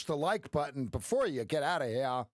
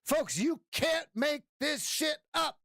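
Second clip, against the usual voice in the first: much higher, slow, shouted; excited shout; 11 semitones higher, slower than usual. Real, not acted. Celebrating the win to his folks, real excited shout. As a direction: crow about the win.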